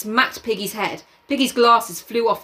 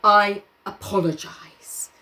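whispered; slower than usual. Acted. Jack's cold apology.

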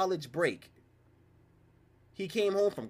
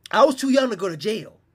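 louder outburst; 4 semitones higher, 9 dB louder than usual. Real, not acted. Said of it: "emphatic retelling".

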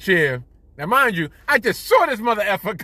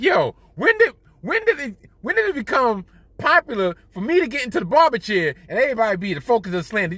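indignant rant; 5 semitones higher than usual. Retold or imitated. Indignant complaint about barbershop slander.

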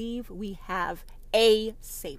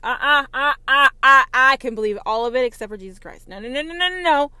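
mocking shocked Christian; 4 semitones higher, 12 dB louder, faster than usual. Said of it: "Oh, you are done with her".

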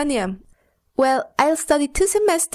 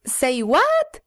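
surprised. Pretend.

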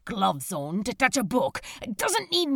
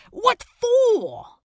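incredulous; 11 semitones higher, 4 dB louder than usual. Acted. Crowley scoffs at the feature.

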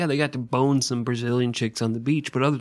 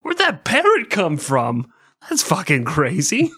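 freaked-out disbelief; 4 semitones higher, 5 dB louder than usual. Retold or imitated. Captain freaking out.

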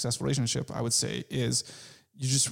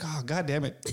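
joking tone; 2 semitones higher than usual. Retold or imitated. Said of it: "in a joking tone".

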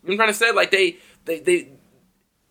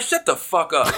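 higher-pitched retold retort; pissed off; 4 semitones higher, slower than usual. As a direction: snap back at the critics, annoyed. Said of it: "I get pissed off".

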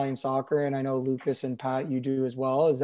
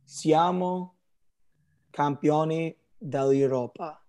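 in Italian; slower than usual. Shown as a demonstration. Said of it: "I'll start it off in Italian".

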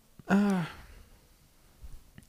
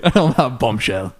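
Clarkson catchphrase; 3 semitones lower, 4 dB louder than usual. Acted. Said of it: "in the words of Jeremy Clarkson".

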